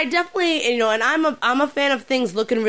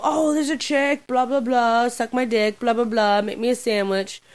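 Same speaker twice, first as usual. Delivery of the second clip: mocking gamer trolls; 4 semitones higher than usual. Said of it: "a little barrage by".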